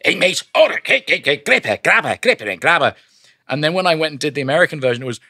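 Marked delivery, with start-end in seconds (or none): 0.1-2.9 higher Scouse skit voice; Scouse comedy duo voice; Scouse accent. Retold or imitated. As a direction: Liverpool banter, jumping up high. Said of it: "ripped off Harry Enfield and Paul Whitehouse going".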